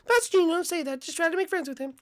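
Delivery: high mom voice with a firm telling-off; scolding mom. Acted. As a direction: stop your son being rude. Mom corrects son.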